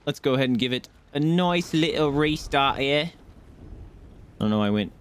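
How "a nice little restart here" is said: put-on lapse into a light cockney accent; a hint of playful cockney; weird cockney. Streamer restarting the bot, slipping into mock cockney. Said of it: "weird cockney there".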